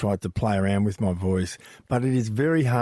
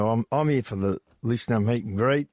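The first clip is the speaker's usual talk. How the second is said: a touch more Australian accent; extra Aussie. Shown as a demonstration. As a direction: lean lightly into the Australian accent. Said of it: "He added a little extra Aussie".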